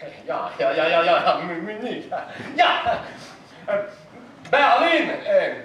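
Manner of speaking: flustered, stammering fake German; put-on German accent. Con man caught out over Munich, flustered put-on German accent. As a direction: cover a slip with a hurried German "ya, ya". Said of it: "pourquoi pas un Germain?".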